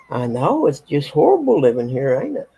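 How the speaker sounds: teasing the kitty; mock pity to pet. Real, not acted. Mock sympathy to cat.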